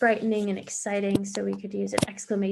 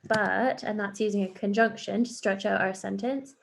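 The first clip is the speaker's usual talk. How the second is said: mouse reply; slower than usual. Acted. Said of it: "What does the mouse say?".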